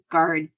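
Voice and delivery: "garden" with the T turned into a D; American D sound. Shown as a demonstration. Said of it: "They turn the T into a D sound".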